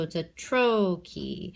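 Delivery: "trochee" with a drawn-out first syllable; stress on first syllable. Shown as a demonstration. Teacher contrasting trochee with iamb, first syllable stressed. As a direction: lean on the "tro" of "trochee", let "chee" drop. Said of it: "why I say it this way".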